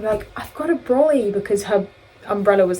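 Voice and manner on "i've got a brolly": higher-pitched Australian impression; Australian accent. Announcing the brolly in the rain, Australian accent. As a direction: put on a high Australian voice. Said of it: "in an Australian accent".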